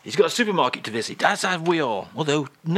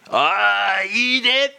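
high, loud mock-French exclamation; a French singer; 7 semitones higher, 5 dB louder, much slower than usual. French guest hears of a singer's record, excited mock French singer. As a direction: cry out the name like a besotted Frenchman. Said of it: "And Charles, today we have got".

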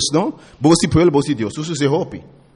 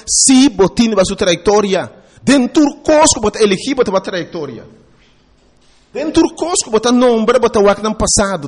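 raised, emphatic sermon delivery; impassioned preaching; 3 semitones higher than usual. Acted. Preacher warning the people about choosing their leaders, impassioned preaching. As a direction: preach it out with punched key words.

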